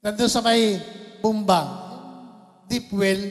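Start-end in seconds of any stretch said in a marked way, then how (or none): none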